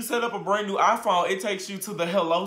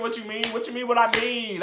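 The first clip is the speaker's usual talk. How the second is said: higher, dumb-sounding mimic; mocking the slow question; 5 semitones higher, faster than usual. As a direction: parody her clueless question. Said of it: "this slow-ass question".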